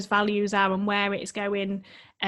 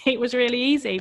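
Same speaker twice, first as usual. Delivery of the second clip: amused at herself; laughing; 3 semitones higher, 5 dB louder than usual. Real, not acted. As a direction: chuckle through the words. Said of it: "repeats with laugh".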